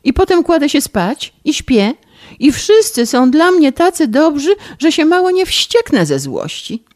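high, tearful whining complaint; rozżalona skarga. Acted. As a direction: whine through tears about being spoiled. (bratanica żali się stryjowi, płaczliwie i wysoko)

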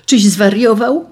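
storyteller's indignant cry; indignant shout. A narrator's reading. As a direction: burst out with it, pitch up. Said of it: "krzyknął wreszcie".

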